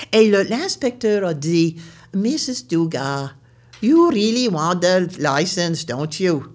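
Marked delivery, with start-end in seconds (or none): 2.1-6.4 low, slow official in English; a kindly inspector asks. Retold or imitated. (inspecteur lent et grave)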